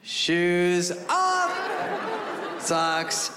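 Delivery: high, strained list of items coming off; mock panic. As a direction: call out each item in hammed-up desperation.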